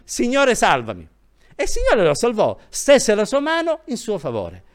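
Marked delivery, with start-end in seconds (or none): 0.0-1.1 retold cry for help. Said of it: "Gridò semplicemente".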